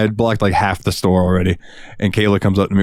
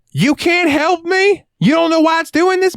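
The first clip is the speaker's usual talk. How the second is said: mock customer voice. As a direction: stretch it out like an outraged customer. Customer voiced in retold quarrel.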